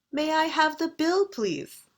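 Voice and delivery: British tune, high on bill, falling on please; British intonation. Shown as a demonstration. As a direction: ask for the bill the British way, dropping at the end. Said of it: "That's the British way".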